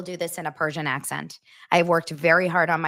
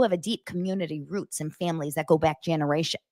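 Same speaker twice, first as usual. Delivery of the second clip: bad dropped-R Rhode Island accent; amateur Boston-tinged Rhode Island accent; attempted Rhode Island accent. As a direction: read it like a would-be Rhode Islander. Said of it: "let's try to do my best".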